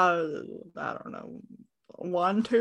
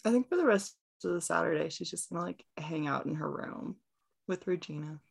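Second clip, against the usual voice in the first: quiet fast mumble; 4 semitones lower, 11 dB quieter, much faster than usual. Real, not acted. Player answers quietly.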